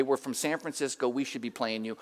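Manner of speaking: low, soft, understated comeback; cool retort. Retold or imitated. Pastor to excited Seahawks fan at the bar, cool retort. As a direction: tell him off casually under your breath.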